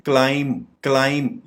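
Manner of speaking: "क्लाइंब" as klaim; silent b. Shown as a demonstration. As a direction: end "क्लाइंब" on m, no b. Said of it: "बी silent है".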